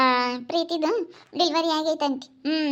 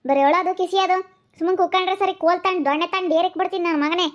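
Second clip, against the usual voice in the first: scolding threat; 4 semitones higher than usual. Acted. Carer threatening a whining child with a stick, scolding.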